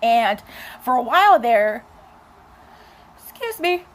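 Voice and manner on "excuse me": talking through a yawn; words stretched by a yawn. Real, not acted. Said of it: "sorry, I was yawning".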